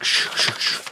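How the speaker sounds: unvoiced hushing shh; soft mock shush. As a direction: hush him like a librarian. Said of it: "does that thing where he's like".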